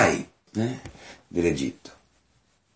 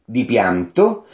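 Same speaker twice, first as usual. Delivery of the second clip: high, slow emphatic reading; raised, drawn-out scripture reading; narrated cry of weeping; 9 semitones higher, 6 dB louder, much slower than usual. A narrator's reading. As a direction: declaim the cry without sobbing. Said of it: "diede un grido di pianto".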